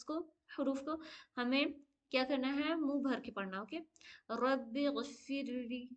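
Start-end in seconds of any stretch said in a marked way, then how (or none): 4.3-5.9 slow, with ली in गफिरली drawn out long; stretched ली. Shown as a demonstration. Teacher demonstrating the lengthened ली for students. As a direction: read रब्बी गफिरली slowly, hold the final ली. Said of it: "ली को खींचेंगे".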